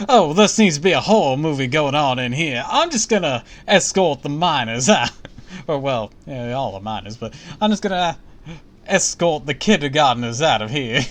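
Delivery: high, loud comic teacher voice; hammed-up teacher. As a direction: play the flustered teacher. Playing the teacher, joking.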